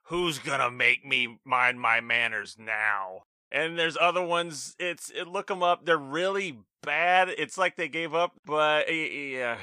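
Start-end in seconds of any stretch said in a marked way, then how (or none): 0.1-3.2 Crush. Acted. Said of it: "Crush leans into the camera and says".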